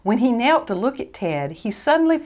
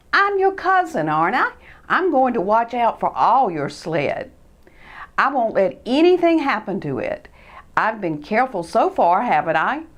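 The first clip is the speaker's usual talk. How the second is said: Ted persuading; 3 semitones higher than usual. Acted. Ted persuading his cousin to trust him. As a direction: sweet-talk him into trusting.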